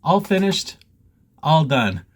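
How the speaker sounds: slow, mock-posh British accent. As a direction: say it like a proud Brit. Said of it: "So British".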